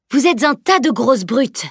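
slow, teasing reproach; playful scolding. A narrator's reading. Mock telling-off, drawn out. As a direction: Elana teases the men for crowding Camille, mock scolding. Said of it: "lança-t-elle aux hommes".

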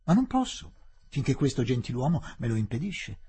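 light, unbothered reply; Fielding calmly pointing at the blocking officer; lightly. Acted. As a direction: toss it off casually. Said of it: "disse Fielding leggermente".

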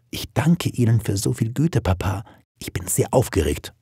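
lightly voiced nervous girl; a hint of a dutiful, excited daughter; shy young daughter. Daughter thanking Papa for his kindness, shyly excited.

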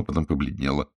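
ordinary delivery, nothing marked

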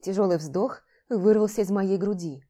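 ordinary delivery, nothing marked

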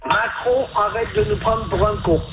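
hesitant repeat through a megaphone; over a megaphone. Real, not acted. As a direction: read it into the megaphone. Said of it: "vous allez prononcer".

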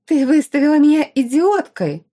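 high, loud enraged yell; shrieking outrage at being humiliated; furious yell. Acted. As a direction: scream the accusation at her. Enraged girl yells at rival.

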